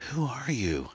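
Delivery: high, thin-volume plea to know; frightened question. A narrator's reading. Pinned Anne asks her attacker who he is, fearful. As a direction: raise it high, fearful and bewildered.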